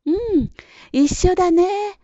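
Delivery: put-on high, friendly child's voice; smiling reply. A narrator's reading. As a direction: agree happily with a smile. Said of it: "にっこりと笑顔で答えてくれました". (にっこり笑顔で)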